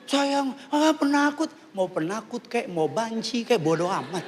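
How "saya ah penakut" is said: imitated wife's high-pitched jeer; acted-out scornful whine; mock taunting. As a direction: tease him as a coward in a raised voice. Acts wife teasing him as coward.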